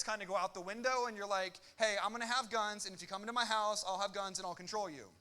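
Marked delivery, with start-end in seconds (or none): 1.8-5.1 loud, firm declaration of arming up; defiant declaration. Retold or imitated. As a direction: proclaim it boldly to a would-be intruder. Imagined defiant homeowner declaring.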